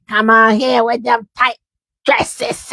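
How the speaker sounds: mock preacher's scolding; imitating a preacher. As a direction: playfully mimic a preacher calling someone out. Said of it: "I'm just talking about how he be talking".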